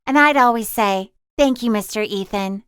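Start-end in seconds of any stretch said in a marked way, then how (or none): 1.4-2.6 sincerely. Acted.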